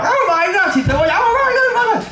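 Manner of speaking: very high, hammed-up squeals; mock English gushing. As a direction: overact the gushing English tourist. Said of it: "lo que hacen los ingleses cuando pasa cualquier cosa". (chillido exagerado de imitación)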